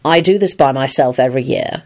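calm, understated reply; lightly voiced calm man; Lupin, calm. A narrator's reading. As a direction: answer evenly without rising to it. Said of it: "he replied calmly".

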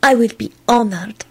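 mildly sweet reply; a touch of sweetness. A narrator's reading. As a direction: accept tenderly. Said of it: "she replied sweetly".

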